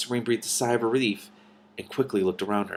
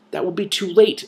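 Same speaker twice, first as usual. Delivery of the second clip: higher and louder, urgent cry; 10 semitones higher, 6 dB louder than usual. A narrator's reading. Princess warning the dragon of danger, urgent cry. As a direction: cry out in alarm. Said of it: "Cimmerian cried".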